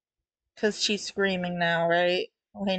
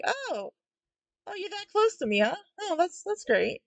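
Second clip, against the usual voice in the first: nervous act; 10 semitones higher than usual. Acted. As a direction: play it nervously polite, voice high and small. Acts out nervous reaction in comic.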